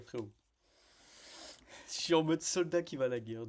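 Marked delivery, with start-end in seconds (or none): 1.9-3.5 hyped retelling. Real, not acted.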